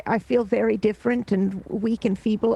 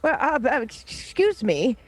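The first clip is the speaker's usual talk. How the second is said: hesitant, stammering, slightly higher voice; timid interruption; 3 semitones higher than usual. Acted. Small newcomer interrupting the giant's threats, timid stammer. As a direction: edge politely into a fight, tripping over words.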